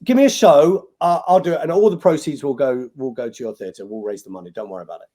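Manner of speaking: high, loud eager volunteering that fades down at the end; eager offer. Retold or imitated. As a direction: jump in to save the theatre, then settle. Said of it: "I was like".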